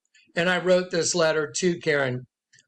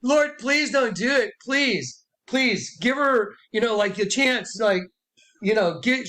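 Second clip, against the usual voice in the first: begging; 3 semitones higher than usual. Retold or imitated. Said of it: "I was begging for Karen".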